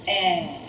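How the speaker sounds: "eh" said with a wide smile; smiling short e. Shown as a demonstration. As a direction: smile and sound out "eh". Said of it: "smile and say".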